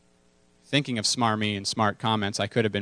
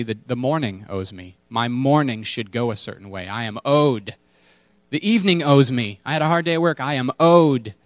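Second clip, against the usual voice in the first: entitled voice. Pretend. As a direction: play the aggrieved man who thinks everyone owes him. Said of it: "an attitude that says".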